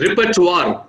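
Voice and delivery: "repertoire" ending in a wah sound; French-style pronunciation. Shown as a demonstration. Showing a colleague how French OI sounds, "repertoire" with twar. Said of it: "we say it as repertoire".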